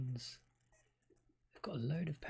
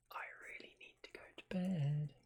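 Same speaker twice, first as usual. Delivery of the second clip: whispering; 5 dB quieter than usual. Real, not acted.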